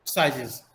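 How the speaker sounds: साइजेस ending in "iz", falling pitch. Shown as a demonstration. Teacher modelling the plural of size, "iz" ending. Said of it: "ईज की तरह हम जो है".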